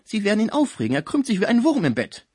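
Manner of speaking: put-on admonishing, lightly German-accented voice; Schmucke. A narrator's reading. German friend warns she will upset the patient, German-accented admonishing. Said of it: "mahnte Schmucke in seiner deutschen Aussprache".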